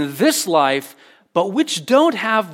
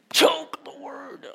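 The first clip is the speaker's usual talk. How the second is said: whisper; 9 semitones higher, 5 dB quieter, much slower than usual. Acted. Preacher dramatizes the verse's key word.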